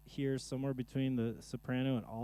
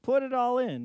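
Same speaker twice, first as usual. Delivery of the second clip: mock purse voice; 10 semitones higher, 7 dB louder than usual. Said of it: "It's just like".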